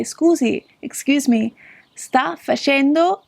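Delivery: polite Italian question, slow; Italian demo. Shown as a demonstration. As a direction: teach scusi sta facendo slowly, lifted. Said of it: "you could say".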